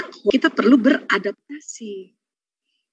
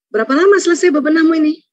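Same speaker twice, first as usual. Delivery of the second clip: higher, mildly impatient question; impatient mother-in-law; 5 semitones higher, 3 dB louder, faster than usual. Retold or imitated. Mother-in-law rushing daughter-in-law's cleaning, mildly impatient. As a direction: lightly needle her about slowness. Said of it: "Apa komen ibu mertua?".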